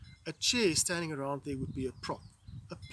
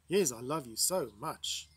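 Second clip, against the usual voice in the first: lower, slow sarcastic declaration; 4 semitones lower than usual. Shown as a demonstration. Teacher demonstrating a stage direction for a love line, sarcastic. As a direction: drag it out with sarcasm, pitched down. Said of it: "you say it in a sarcastic".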